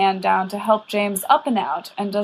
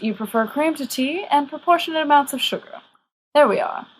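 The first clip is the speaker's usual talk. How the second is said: put-on lightly higher, genial old wizard; kindly old headmaster; 4 semitones higher than usual. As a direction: coax the boys along politely. Dumbledore pours tea.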